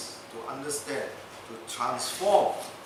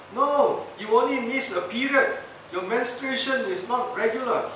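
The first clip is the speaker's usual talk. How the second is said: know-it-all doctor; 8 semitones higher, 4 dB louder than usual. Retold or imitated. Doctor diagnoses the governor.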